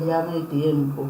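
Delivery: imitando una voz dulce, más suave; soft, gentle retelling of a sweet voice. Retold or imitated. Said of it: "con una voz muy dulce". (con voz muy dulce y suave)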